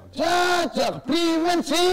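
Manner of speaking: menirukan orang tua kaget. Retold or imitated. Parent sees tattooed son.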